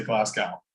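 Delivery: Glasgow ending like "cow"; mispronounced Glasgow. Shown as a demonstration. Co-host admits how they say Glasgow, mispronouncing it. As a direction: say GLASGOW with an "ow" as in "now". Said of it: "we just don't know how to say it".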